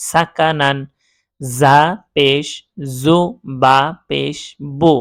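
slow, measured syllable-by-syllable recitation; spelling drill. Shown as a demonstration. Teacher showing learners double zabar, slow spelling chant. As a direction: spell it out slowly, holding each letter name. Spells Arabic words aloud.

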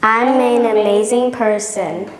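booming motivational speech. Shown as a demonstration. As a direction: boom it back with pride. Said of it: "Repeat after me".

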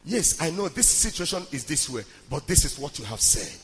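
low, soft address to God; hushed model prayer. Shown as a demonstration. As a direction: pray quietly and reverently.

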